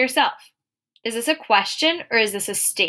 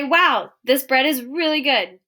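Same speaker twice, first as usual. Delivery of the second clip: higher, louder "wow" of delight; excited; 4 semitones higher, 4 dB louder than usual. Shown as a demonstration. Teacher voicing someone excited about the bread, excited. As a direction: rave about it with real enthusiasm. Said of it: "someone's really excited about the bread".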